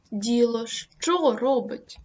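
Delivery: «що» виділене, повільно і голосніше; натисни на «що»; stress on що. Shown as a demonstration. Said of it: "вирізняючи логічним наголосом". (логічний наголос на «що»)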